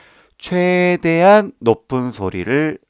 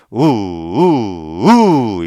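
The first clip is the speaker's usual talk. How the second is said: three oo sounds, the third pushed hardest and louder; building oo pulses; 6 dB louder, much slower than usual. Shown as a demonstration. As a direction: build to a big third kick. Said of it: "이 세 번째 가장 많이 쳐준다고".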